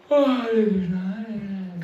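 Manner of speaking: half-hearted cry. Shown as a demonstration. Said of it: "If we cry like this".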